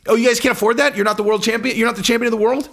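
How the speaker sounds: high, incredulous rising questions; mock disbelief. Champion to friends who can't afford it, high mock-incredulous voice. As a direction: play a champion acting baffled by poorer friends.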